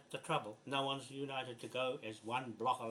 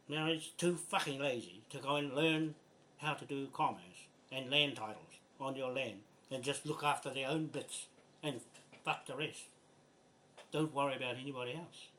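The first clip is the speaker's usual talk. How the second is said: pissed-off rant. Real, not acted. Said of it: "I'm talking like this because I'm so pissed off".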